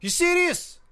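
punchy high catchphrase; catchphrase delivery. Acted. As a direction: hit the catchphrase hard. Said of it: "that's my catchphrase".

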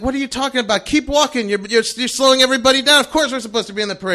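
rapid-fire indignant comeback; indignant bluff. Retold or imitated. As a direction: brush off the challenge and hurry them along. Bluffing back at doubting soldier.

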